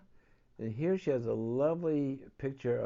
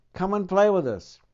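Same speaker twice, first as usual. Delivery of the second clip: louder, cheerful call across the water; 8 semitones higher, 15 dB louder than usual. Acted. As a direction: shout a happy invitation. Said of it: "they called".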